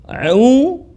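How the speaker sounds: A, ai, au from the middle of the throat; deep throat ain. Shown as a demonstration. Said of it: "suara dalam". (ain dibaca dari tengah tenggorokan)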